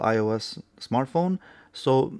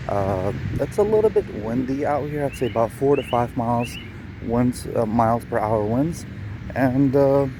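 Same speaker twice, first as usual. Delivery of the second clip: outdoor phone recording, windy; recorded outside with birds and traffic; 4 dB louder than usual. Real, not acted. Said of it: "So we're out on a sort of a cloudy day".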